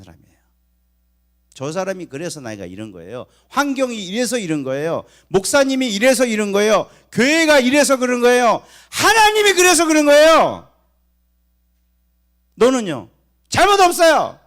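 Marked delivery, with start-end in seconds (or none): 3.5-10.7 building from loud to a high, full shout; escalating hammed-up protest; acted blaming. 12.5-14.4 high, very loud shouted denial; emphatic mock protest; mock defiance. Mock exchange claiming no fault.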